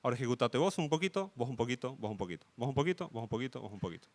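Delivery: rhythmic mock operating system voice; sing-song OS command. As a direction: tick through the turns like a metronome, trailing off. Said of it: "de decirle".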